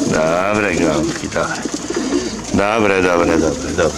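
low, slow, soft praise for the birds; tender murmured praise. Real, not acted. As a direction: coo praise at your pigeons slowly. Praising the pigeons softly.

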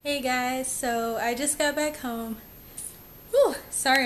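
out of breath from walking in; panting between words, out of breath. Real, not acted. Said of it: "I'm out of breath".

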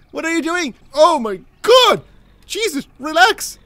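high, loud alarmed yell; alarmed shout. Real, not acted. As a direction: shout in shock at the rammer. NPC rams his truck.

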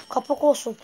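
loud triumphant gloat; gloating shout. Real, not acted. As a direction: crow over the win. Gamer gloating after success.

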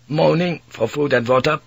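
put-on a weary young Dutch sailor pleading; Dutch mate. Mate about Captain General.

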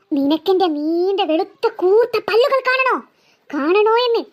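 low, slow, menacing ghost voice; a spirit announcing itself, slow and dark. Acted. Ghost offers to show fangs.

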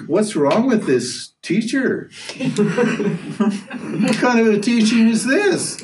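high, slow, laughing bafflement; slowed, laughing what-kind-of-teaching; laughing disbelief. Retold or imitated. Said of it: "And you think".

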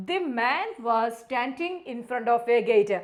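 very slow answer reading; slow read-aloud. Shown as a demonstration. Teacher reading the answer slowly to students. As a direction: read it out word by word. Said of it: "reads answer slowly".

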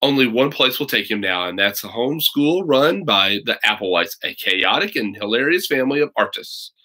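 reading the blurb aloud to listeners; storyteller reading a book blurb; back cover read. Acted. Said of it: "I'll read you the back".

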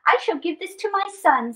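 a hint of wonder in Anansi's voice; mildly awed spider; lightly voiced Anansi. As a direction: marvel at the glowing globe. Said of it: "said Anansi".

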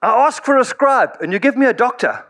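Paul, stuck with a doctor as scribe, mock complaining to the Lord; Paul's exasperated prayer. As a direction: complain to God with comic exasperation, laughing at the end. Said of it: "He says".

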